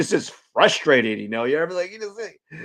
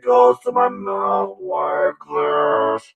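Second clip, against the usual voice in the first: loud, high, over-the-top character; higher, louder goofy persona; hyped-up high voice; 9 semitones higher, 5 dB louder, slower than usual. Acted. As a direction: shout it like a cartoon host.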